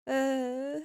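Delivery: talking through a bite of lasagna; mouth full. Real, not acted. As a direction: mumble round a mouthful. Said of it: "excuse me while I take a little bite".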